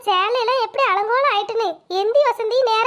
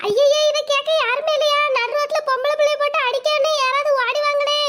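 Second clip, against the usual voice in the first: wailing for help; 3 semitones higher than usual. Acted. Wife beaten on the road wails to neighbours for help. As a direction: call out to passers-by, wailing.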